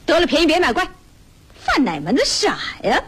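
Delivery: high-pitched public telling-off; loud scolding. Acted. Woman berating the man she came to find, loud scolding. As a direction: scold him for all to hear. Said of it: "你别嚷".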